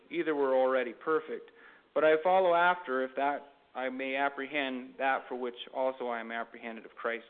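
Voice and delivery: measured Bible reading with lifted phrase openings; scripture reading. Acted. Preacher reading Acts to listeners, formal scripture reading. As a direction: read the verses out to a congregation.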